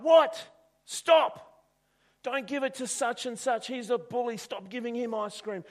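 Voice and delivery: high, frantic yelling at the shopkeeper; jealous boy screaming at the shop owner to stop. Acted. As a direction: shout him down, pitch climbing. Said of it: "He's screaming at the shop owner".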